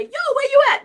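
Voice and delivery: high, loud holler; mock calling out. Grandmother calling family home in modern slang, mock loud holler. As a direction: yell it out across a distance, hammed-up. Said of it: "the grandmothers would call out".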